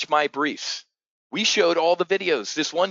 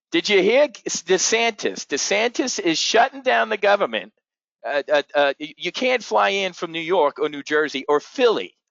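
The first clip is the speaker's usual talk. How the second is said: Edith impression; 5 semitones higher, 3 dB louder than usual. Pool gossip spreading panic to the whole resort, loud old-lady voice. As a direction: ham up a loud, nosy retiree at the pool. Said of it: "Edith and Harry impersonation".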